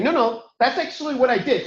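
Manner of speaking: mildly insistent, pitch lifted. Retold or imitated. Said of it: "I'd raise my voice a little bit".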